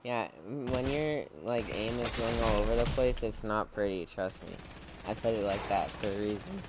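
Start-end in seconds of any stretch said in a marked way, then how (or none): 5.1-6.6 voice cracking. Real, not acted. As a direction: voice breaks mid-line. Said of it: "Why'd my voice crack?".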